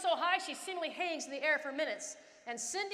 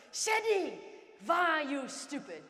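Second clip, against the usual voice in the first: coach yelling; 2 semitones higher, 4 dB louder, slower than usual. Retold or imitated. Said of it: "my coach yells at me".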